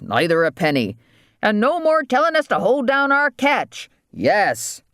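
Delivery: high-pitched rustic island dialect; demanding islanders. Acted. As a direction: make demands as a fed-up waterman. Voices islanders making demands.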